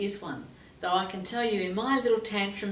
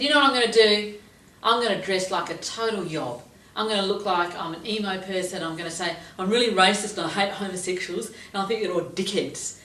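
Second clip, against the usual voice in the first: louder mischievous plotting voice; scheming grumpy student; 5 dB louder than usual. Retold or imitated. Student plotting to dodge jury duty, mischievous. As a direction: plot the escape gleefully. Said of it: "she was very grumpy".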